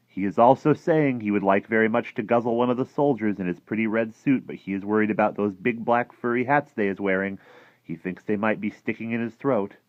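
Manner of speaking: a hint of a chatty giant; lightly voiced friendly giant, matter-of-fact. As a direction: lightly play the giant passing on gossip.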